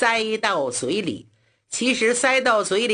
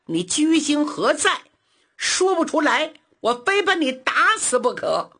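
exasperated yell; 3 semitones higher than usual. Acted. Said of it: "气急败坏的喊".

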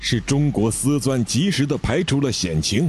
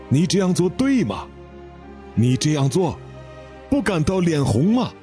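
raised, scolding indignation; indignant; 4 semitones higher than usual. Acted. Katimu indignantly scolding the employee, pitch rising high. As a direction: rebuke him sharply, pitch climbing. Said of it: "愤愤地说".

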